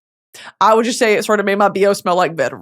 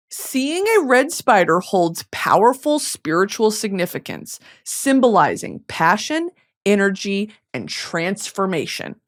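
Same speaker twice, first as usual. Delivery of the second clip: reading aloud. Shown as a demonstration. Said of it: "let me read what this says".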